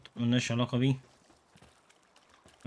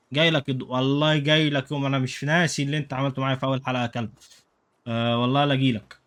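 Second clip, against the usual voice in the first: تهديد مصطنع; 3 dB louder, faster than usual. Pretend. يتوعد الفيل في اللعبة.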